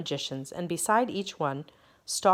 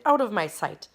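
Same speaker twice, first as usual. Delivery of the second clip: shout; 4 semitones higher, 5 dB louder than usual. Acted. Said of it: "he shouted".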